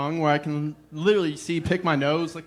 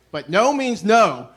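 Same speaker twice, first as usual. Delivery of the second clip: stern mock scolding; 3 semitones higher, 7 dB louder, slower than usual. Mock lecture to pushy guest.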